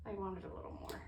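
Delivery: talking with a skewer in mouth; words round a skewer held in teeth; mouth full. Real, not acted. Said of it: "I had that skewer in my mouth".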